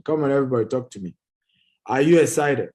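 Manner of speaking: loud rallying question; hyping the crowd. Real, not acted. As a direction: call it out to rouse the audience. Hyping up the webinar audience.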